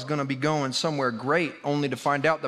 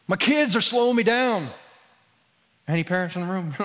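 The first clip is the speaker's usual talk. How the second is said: exasperated rant; 4 semitones higher than usual. Real, not acted. Preacher venting to parents about his kids, in a higher exasperated voice. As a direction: vent like a harried parent.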